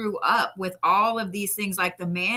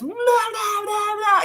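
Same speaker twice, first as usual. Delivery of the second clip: squealed high blah blah; mock chatter; 3 dB louder, much slower than usual. Mocking the drunk ladies fawning over him, high squealed babble.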